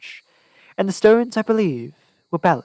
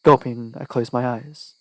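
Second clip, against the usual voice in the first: ordinary delivery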